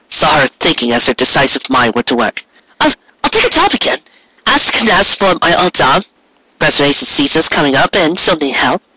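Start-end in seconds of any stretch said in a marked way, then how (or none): 2.8-8.8 put-on young mare, gentle. A narrator's reading. Mare plans aloud.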